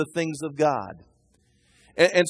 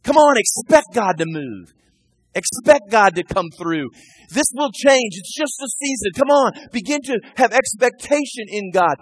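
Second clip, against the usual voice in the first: loud, rising high, coaching himself on; pep talk to himself; 5 semitones higher, 4 dB louder than usual. Acted. David coaching his own soul, excited and much higher. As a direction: fire yourself up like a coach. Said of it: "he literally starts saying to himself".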